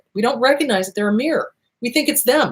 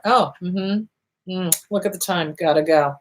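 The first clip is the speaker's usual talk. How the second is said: bored brush-off; 3 semitones lower than usual. Shown as a demonstration. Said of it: "Gray rock".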